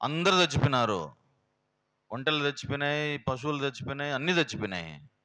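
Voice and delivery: preacher acting Job's wife reproaching him, rising anger; Job's wife scolding. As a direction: voice the bitter wife railing at her husband. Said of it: "దేవుణ్ణి తిడుతుంది ఆయమ".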